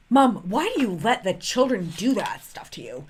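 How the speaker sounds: whispered quote of the daughter. Retold or imitated. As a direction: breathe it out as a hushed whisper. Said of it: "so Zoe was like".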